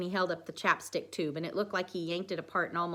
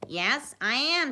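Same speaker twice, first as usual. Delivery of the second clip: higher, slow mock-British Sherlock accent; Sherlock Holmes accent; 7 semitones higher, 6 dB louder, slower than usual. A narrator's reading. Dwight answering about the accent, in Sherlock voice. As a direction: put on a louder Sherlock accent. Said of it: "said Dwight in his Sherlock accent".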